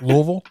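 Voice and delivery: host modeling the local "Louisville"; local Louisville again. Shown as a demonstration. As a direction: repeat "Louisville" as LOO-vul. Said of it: "the local way to say it".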